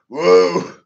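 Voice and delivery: a loud, high whoop; excited whoop. Real, not acted. Ranter whooping at his own wordplay, loud and high. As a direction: let out a hyped-up woo. Hyped whoop mid rant.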